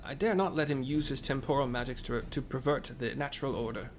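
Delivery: lightly voiced old father; a hint of an elderly man; old people voice. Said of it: "Doing the old people voice".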